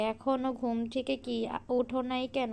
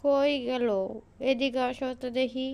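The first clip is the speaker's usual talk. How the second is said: calling out. Acted. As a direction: call her from another room. Mother-in-law calls daughter-in-law.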